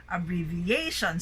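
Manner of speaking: "Abbreviation" with main stress on A in -ation, lighter on BRE; abBREviAtion, voice rising twice; double stress. Shown as a demonstration. Teacher modelling abbreviation, double stress. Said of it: "rising of your voice is done twice".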